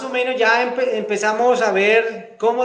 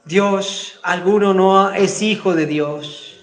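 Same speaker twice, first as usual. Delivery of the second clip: fervent prayer. Real, not acted. Pastor praying aloud for the standing congregation, fervent pleading. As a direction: pray aloud for the whole church, pleading.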